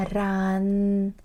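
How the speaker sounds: "ran" starting with an R sound. Shown as a demonstration. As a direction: sound the first consonant of "ran" as R. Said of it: "This time it makes an R sound".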